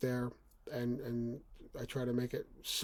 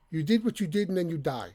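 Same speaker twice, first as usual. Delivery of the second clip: comical gruff dad voice, higher and louder; mild mock of a TV father; Frank Barone; 4 semitones higher, 6 dB louder than usual. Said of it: "That's the way he says it".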